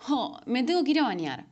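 a sighing, put-upon grumble about the shower; whiny complaint. Shown as a demonstration. Showing a complaint as an example, mildly whiny. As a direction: moan about the chore with a falling end. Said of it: "Ya salió la queja".

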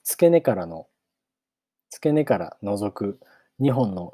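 measured audiobook reading with long pauses; story narration. A narrator's reading. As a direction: read it out as a storybook opening. Narrates the novel. (間を取った物語の朗読)

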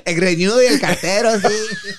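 auntie voice. Pretend. Tia voice laughing.

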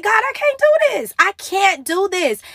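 pleading protest, starting high and easing down; high-pitched retold plea of overwhelm; retold plea to God. Woman telling the Lord she can't cope, pleading.

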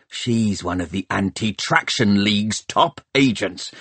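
rough-spoken pirate boss, indignant and vengeful; scornful pirate mayor. A narrator's reading. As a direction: rant like a pirate chief rallying his crew. Pirate mayor's rant in character.

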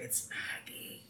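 hushed whisper. Retold or imitated. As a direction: whisper the name under your breath. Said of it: "Marge is whispering like".

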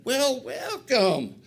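loud, drawn-out, high-pitched greeting; big welcome. Retold or imitated. Big guy greeting a newcomer at the convention, big welcome. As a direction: imitate a hearty, booming hello, stretched out.

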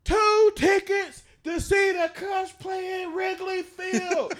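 high, loud, slow radio announcer. Retold or imitated. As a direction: hype it like a prize-call DJ. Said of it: "I'm like".

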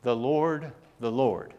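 measured reading of scripture, unforced; careful, unhurried retold Bible reading; reading real slow. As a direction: read each phrase deliberately, with room around it. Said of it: "read it real slow".

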